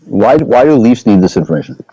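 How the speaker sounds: talking through a toothbrush; while brushing teeth. Real, not acted. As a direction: mouth full of toothpaste. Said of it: "I'm just sitting here brushing my teeth".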